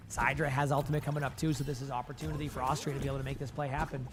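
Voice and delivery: hoarse, strained low voice; rasping through the commentary; losing voice. Real, not acted. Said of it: "I'm losing my voice".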